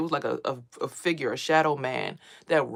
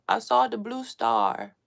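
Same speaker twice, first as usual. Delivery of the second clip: put-on eerie child voice; 6 semitones higher, much slower than usual. Child's eerie answer retold.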